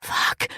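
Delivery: breathy moaned curse. Acted. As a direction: moan the word out. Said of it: "I moaned".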